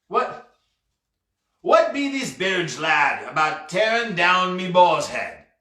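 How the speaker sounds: lightly voiced old sea dog, griping; grumbling pirate captain. Pirate fretting over ailments and busybodies, querulous.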